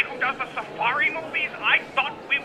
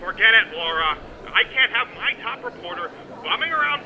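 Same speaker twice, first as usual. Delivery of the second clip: curt refusal. Acted. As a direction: shut her down. Editor refuses reporter's request.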